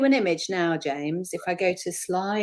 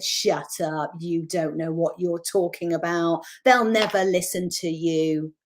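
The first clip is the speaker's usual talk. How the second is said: nasty inner voice. Retold or imitated. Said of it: "I heard it. It said".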